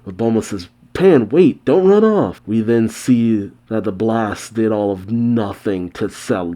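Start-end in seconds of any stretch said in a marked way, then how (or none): 0.9-2.4 high, raised, alarmed call; calling after. A narrator's reading. Bulma tries to stop Pan, calling after her. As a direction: call out to stop a runaway child.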